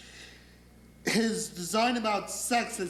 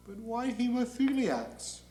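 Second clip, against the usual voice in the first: higher, meek questioning; Gabriel; 4 semitones higher than usual. Acted. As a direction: timidly query the boss. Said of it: "And Gabriel says".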